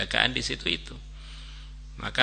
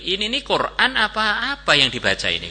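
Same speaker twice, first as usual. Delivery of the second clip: puzzled angel; 8 semitones higher, 4 dB louder than usual. Acted. Recording angel wonders what was recited, puzzled questioning. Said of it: "mikir-mikir".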